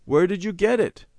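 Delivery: high, astonished question; surprised. A narrator's reading. Mother asking Randy about the licorice, surprised. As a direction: demand it in surprise. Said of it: "Mother said in surprise".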